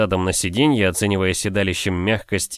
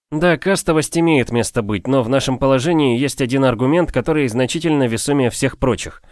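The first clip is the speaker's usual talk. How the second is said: lightly voiced confident gentleman; 4 semitones higher than usual. Narrator voices his own character.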